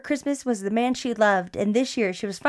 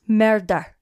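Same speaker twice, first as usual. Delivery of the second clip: Forensic Files narrator. Retold or imitated. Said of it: "say it like fucking Forensic Files".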